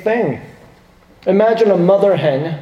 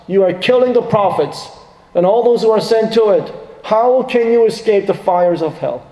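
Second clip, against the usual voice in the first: rebuking lament; 3 semitones higher than usual. Acted. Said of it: "So Jesus is saying".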